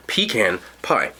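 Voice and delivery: "pecan pie" drawn out slowly, pih-CAN pie; pronunciation. Shown as a demonstration. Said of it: "okay, pecan".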